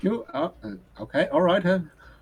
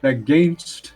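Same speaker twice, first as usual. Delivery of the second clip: slow, declaiming a sonnet, a bit louder; poem recitation; 3 dB louder than usual. Acted. Bard reciting a sonnet to the family, declaiming. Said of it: "This is a poem".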